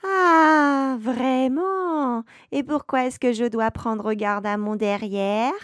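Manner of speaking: a nasty little witch pouncing on the words; sour little witch voice. Acted. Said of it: "une petite voix pointue, aigre, méchante".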